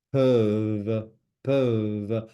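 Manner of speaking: slow "peuvent" with the final v drawn out; emphasized word ending. Shown as a demonstration. French teacher stressing word endings for learners, emphasized ending. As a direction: lean on the closing v of "peuvent". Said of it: "I emphasize, the ends of the words".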